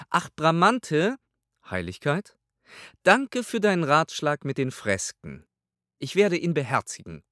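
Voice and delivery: a haughty pontiff asking his servant; pope's voice. A narrator's reading. Pope voiced in audiobook.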